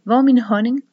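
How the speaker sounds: loud, high call for honey; shouting. A narrator's reading. Wasp-costumed man shouting for his honey, loud high call. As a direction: bellow the question across the garden. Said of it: "råber en mand".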